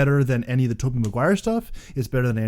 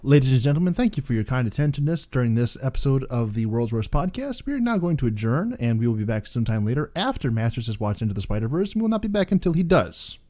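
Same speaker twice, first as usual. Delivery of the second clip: mock announcer. Mock formal podcast sign-off.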